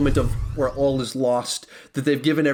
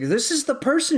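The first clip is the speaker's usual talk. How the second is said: Gamora; 9 semitones higher than usual. Retold or imitated. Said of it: "and she's like".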